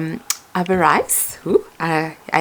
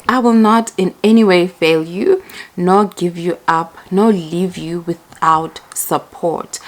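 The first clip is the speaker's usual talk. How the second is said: scripture reading. Acted. Reading scripture aloud to viewers.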